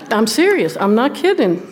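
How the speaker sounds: ordinary delivery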